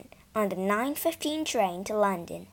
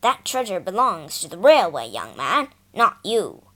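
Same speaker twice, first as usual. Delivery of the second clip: stern scolding; 2 semitones lower, 6 dB louder than usual. Acted. Porter scolding the boy.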